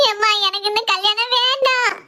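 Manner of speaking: slow, drawn-out tearful plea; tearful pleading. Acted. Daughter begs her mother to call off the wedding, tearful. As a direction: beg mother, dragging out the words. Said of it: "தரையில படுத்து அழுதுட்டு கிடக்கா".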